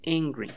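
"Angry" starting with an "e" sound, ENG-gree; "Angry" as a clear English model word; correct English pronunciation. Shown as a demonstration. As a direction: say "Angry" as if it began with E, falling tune. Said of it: "como si la primera fuera una E".

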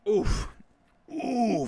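oohing. Real, not acted. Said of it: "just oohing".

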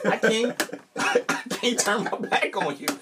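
high, exasperated disbelief, half laughing; retelling his shock, voice jumping up in disbelief; disbelieving outburst. Retold or imitated. To his friend at the stage, high laughing disbelief.

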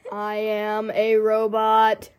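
slow robot voice modification. Pretend. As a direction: toy robot voice filter. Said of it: "mine was robot".

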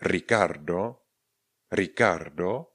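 "Ricardo" with a rolled R up front, rising at the end; trilled initial R. Shown as a demonstration. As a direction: growl the first R of "Ricardo". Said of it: "kde máme dvě R".

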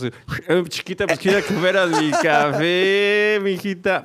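swagger it like a street guy; hammed-up homeboy pickup line; Flowers barrio style. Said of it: "But when Flowers comes".

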